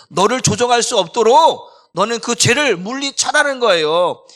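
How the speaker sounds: loud, high, sustained exhortation; forceful preaching. Real, not acted. Preacher urging listeners to drive sin out, shouting forcefully. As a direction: drive each phrase home at full volume.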